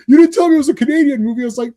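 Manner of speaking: mock accusation. Friend blaming host over a Canadian movie, mock accusation. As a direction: fire back like a mildly aggrieved friend. Retold back-and-forth argument.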